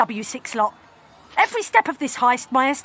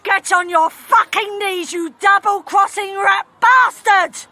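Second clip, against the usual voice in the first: slow, louder villain snarl; angry threat; 4 semitones higher, 4 dB louder, slower than usual. Acted. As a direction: spit it out slow and menacing. Villain turns on gang.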